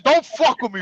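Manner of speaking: retold heated retort; indignant warning. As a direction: act out warning him off.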